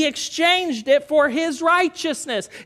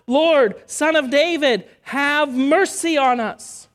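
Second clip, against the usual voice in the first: retold louder shout; 3 semitones higher, 3 dB louder, slower than usual. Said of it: "So they shout louder".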